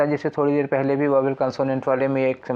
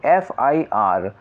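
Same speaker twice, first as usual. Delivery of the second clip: 1 slow pronunciation demo; 4 semitones lower, much slower than usual. Shown as a demonstration. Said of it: "क्या पढ़ते हो".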